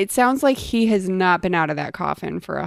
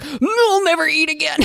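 high, wailing mock outburst; hammed-up high-pitched despair; 11 semitones higher than usual. Retelling his overreaction to a failed feeding, mock despair.

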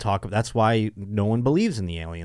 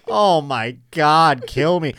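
exasperated groan; 4 semitones higher, 4 dB louder, much slower than usual. Retold or imitated. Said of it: "and be like".

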